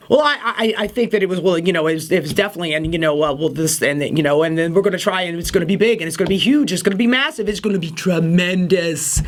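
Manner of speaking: rambling Trump impression, speeding up at the end; lightly voiced Trump rambling into big, huge, tremendous; Trump word salad. Host mocking the president's word salad, rambling fast. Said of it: "he'll give you this nice long word salad".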